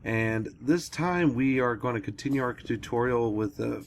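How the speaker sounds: lost voice, hoarse and rough. Real, not acted. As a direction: talk through a voice that's nearly gone. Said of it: "I've kinda lost my voice a little bit".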